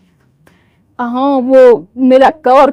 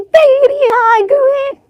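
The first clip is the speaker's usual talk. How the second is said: put-on high, slow old woman saying तेरी आंख में smoothly with no stammer; a lightly voiced elderly mother-in-law finishing the phrase clearly; slow, high, even तेरी आंख में; old woman, clean take; 10 semitones higher, much slower than usual.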